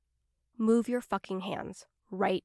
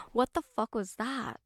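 usual speaking voice

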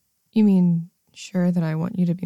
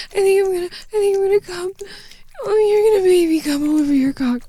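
much higher, fast, crying out; high breathless cries; breaking climax cries; 10 semitones higher, faster than usual. Acted. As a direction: let the voice crack upward. Approaching climax.

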